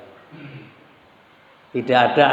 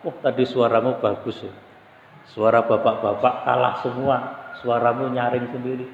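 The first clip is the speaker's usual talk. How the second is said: mildly soft, lowered praise; gentle coaxing; 4 dB quieter than usual. Acted. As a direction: coax a child gently, a touch quieter. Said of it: "itu pelan-pelan".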